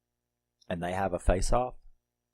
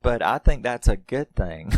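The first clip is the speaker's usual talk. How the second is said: laughing; 4 semitones higher, 7 dB louder than usual. Real, not acted. Laughs at reviewer.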